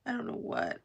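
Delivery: whispered repeat. Pretend. Streamer toying with her own words, a high whisper. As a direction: toss the phrase off in a light whisper.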